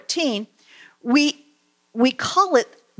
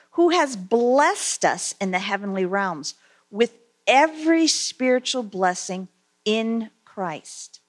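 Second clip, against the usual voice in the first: scripture reading. Acted. Reads scripture aloud.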